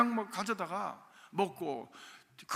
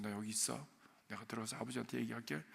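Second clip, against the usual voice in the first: soft reassuring; 8 semitones lower, 11 dB quieter than usual. Retold or imitated. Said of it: "아궁이 옆에다 저를 앉히셨어요".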